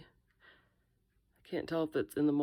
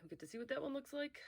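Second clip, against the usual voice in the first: whispering; 11 semitones higher, 9 dB quieter, faster than usual. Real, not acted. Crafting vlog, quiet aside.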